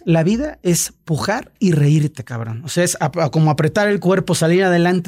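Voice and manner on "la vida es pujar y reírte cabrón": shaman's saying. Retold or imitated. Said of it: "la frase que te dijo".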